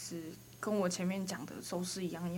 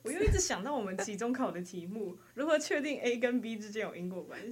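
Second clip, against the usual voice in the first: laughing; 4 semitones higher, 4 dB louder than usual. Real, not acted. Laughing while recalling exam question.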